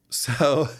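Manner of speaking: amused laugh breaking into the talk; real chuckle as you start to explain. Real, not acted. Dad amused by his son in the other room, laughing. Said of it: "I'm laughing right now".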